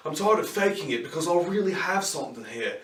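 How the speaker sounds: a weak attempt at a British accent; half-hearted British accent, like the TV medium; bad British accent. Reviewer imitating Jared Harris's character, in a bad British accent. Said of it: "I, I'm terrible at accents".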